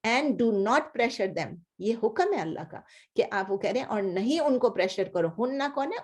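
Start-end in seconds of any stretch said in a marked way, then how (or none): 0.1-1.5 slow, weighty translation; teacher stressing the command, slowly; slow gloss. Shown as a demonstration. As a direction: say each word slowly. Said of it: "slow translation".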